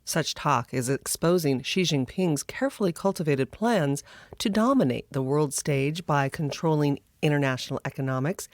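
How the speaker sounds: measured news anchor delivery; news read. Acted. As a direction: read it like a news headline intro. Scripted news-style intro.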